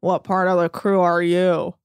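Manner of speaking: low-pitched monotone imitation; mock droning rich son; weird monotone drawl. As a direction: drone it out on one note, mocking him. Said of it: "in his weird monotone drawl".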